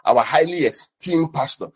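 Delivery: slow, solemn mock reverence; slow reverent mock. Preacher mimicking a church's formal address, slow and solemn. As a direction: drawl highly esteemed like a devout member. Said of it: "Every statement they make".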